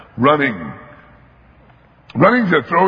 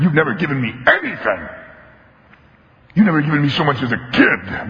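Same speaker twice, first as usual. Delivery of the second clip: aggrieved tirade; 4 semitones higher than usual. Acted. Older son rails at his father, high and bitter. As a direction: pour out years of resentment. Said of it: "the tirade this guy goes into".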